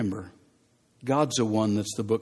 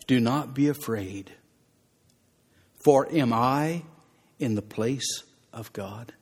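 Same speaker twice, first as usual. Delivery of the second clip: gentle Joseph. Acted. Joseph reassures his brothers.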